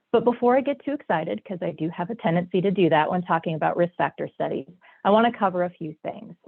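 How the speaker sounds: stuffy nose from a cold; talking through a blocked nose; nasal voice. Real, not acted. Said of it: "apologize for my nasally voice".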